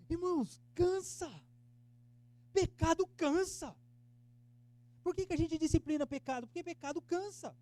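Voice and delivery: loud, high, slow sermon cry; fervent preaching. Acted. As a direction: hammer home that sin wears you out. Preaching at full force. (pregação inflamada, alta e lenta)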